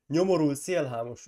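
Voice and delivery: hangosan odavetett, dühös szidalom; kiálts rá indulatosan, az első szót megnyomva; dühödt üvöltés. A narrator's reading. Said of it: "üvöltötte". (dühös, hangos kifakadás)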